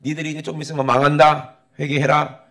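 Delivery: loud prophet's warning, lightly acted; proclaiming. Jonah warning the great city to repent, proclaiming loudly. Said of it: "큰 성에 외치는 거야".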